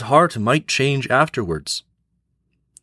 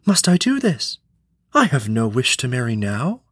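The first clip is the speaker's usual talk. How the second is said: a princess protesting, raised pitch; cartoon princess. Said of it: "said the princess in distress".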